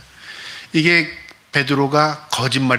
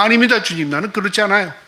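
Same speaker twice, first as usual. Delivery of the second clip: eager protest; 6 semitones higher than usual. Acted. Peter protests to Jesus.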